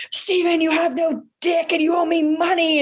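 high-pitched mock tirade at Steven; mock crazy ex. To ex Steven at a party, a hammed-up high-pitched tirade. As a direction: playfully voice a crazy woman making a scene.

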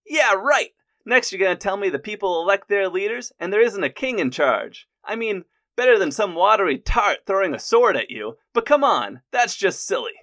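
loud, high, scoffing hammed-up guard; mock the idea like a sketch-comedy soldier; a silly guard ridiculing a traveler at the city gates; Monty Python guard. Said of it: "played out like a Monty Python skit".

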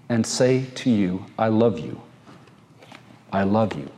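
gentle, reassuring reading of God's words; God's tender voice. Acted. Pastor voicing God's words to the beloved, tender and reassuring. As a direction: speak it as a loving promise.

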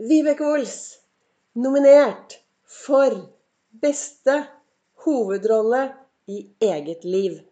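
lightly voiced gala host reading out a nomination; award announcer. Imagined award ceremony announcement.

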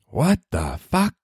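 drawn-out incredulous what the fuck; slow stunned reaction. Real, not acted. Host reacting to odd news, slow stunned disbelief. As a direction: let disbelief stretch each word.

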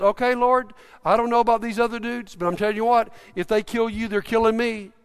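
retold confident vow, mildly emphatic; bold declaration. Peter vows to die with Jesus, bold. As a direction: boldly pledge loyalty, lightly acted. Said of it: "he's spoken so boldly".

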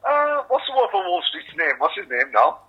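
a hint of a dad picking up the phone; dad answering phone. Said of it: "his old man when he answered".

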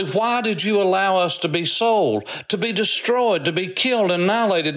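rising, heartfelt appeal; impassioned plea. Retold or imitated. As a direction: plead with the king for her people's lives. Esther pleading with the king.

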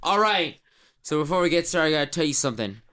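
swaggering team captain hyping the recruits; Zach Smith. Acted. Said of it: "not Jay Finn, Zach Smith, can you do that for us?".

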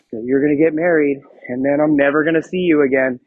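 hammed-up gloomy groomsman; mock sad. Pastor playing a groomsman at a wedding, mock sad. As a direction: act mildly mopey, as a joke. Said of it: "sitting there, like, sad".

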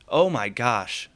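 drawn-out sarcastic exclamation; slow, exaggerated false sympathy; mock dismay. Cohost mocking heirs who complain about net checks, sarcastic.

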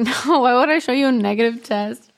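incredulous. Retold or imitated. Woman to partner who misread her pregnancy test, incredulous.

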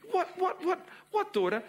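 high, loud, rapid questions; a mother caught off guard; startled mother. Acted. Mother voiced in story.

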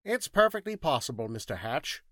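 high-pitched, curt scientist; brusque correction, pitched high then dropping. Acted. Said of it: "said the thinking machine curtly".

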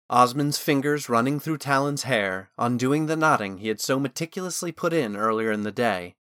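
usual speaking voice

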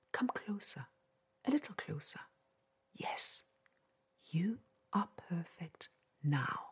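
right in your ear. Pretend. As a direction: whisper it like a secret. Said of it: "Let me whisper in your ear".

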